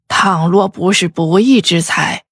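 put-on lightly angry old lady; old mother, mildly indignant; 生气的老夫人. A narrator's reading. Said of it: "老夫人倒是十分生气的模样". (微微生气的老夫人)

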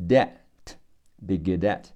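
"good at" linked as goo-dat; slow demo of "be good at" run together; linked sounds. Shown as a demonstration. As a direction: slowly join the d of "good" onto "at". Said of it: "的和后面的I也要连起来".

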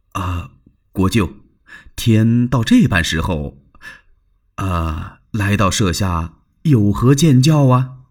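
lightly voiced wary host, hushed; cautious Liu Bei. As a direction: ask warily at night. (小心谨慎的刘备)

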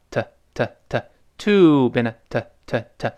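TO reduced to a short "tuh"; weakened TO. Shown as a demonstration. Teacher demonstrates weak form, TO as a tiny "tuh". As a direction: shrink TO into quick, light "tuh". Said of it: "所以弱化成".

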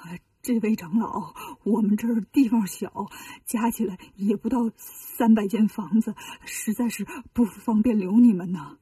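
mildly scared abbot pleading with Wukong; trembling. Acted. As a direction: cower and beg politely. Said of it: "战战兢兢地说".

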